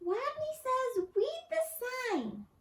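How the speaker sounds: tiny high squeak, slow and timid. A narrator's reading. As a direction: squeak it out like a scared little rodent. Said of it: "and squeaked".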